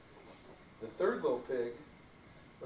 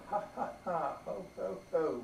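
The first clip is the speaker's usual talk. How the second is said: mock laughing; 4 semitones higher than usual. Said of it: "laughed the two little pigs".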